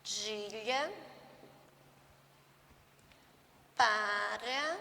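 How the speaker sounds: very slow, word by word, with long pauses; teacher dictating a model sentence to children; slow dictation. Shown as a demonstration. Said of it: "Vou fazer só uma pra vocês observar".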